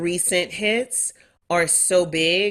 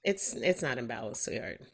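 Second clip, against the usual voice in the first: auntie voice; 6 semitones lower, 10 dB quieter than usual. Acted. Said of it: "I hate to put my auntie voice on it".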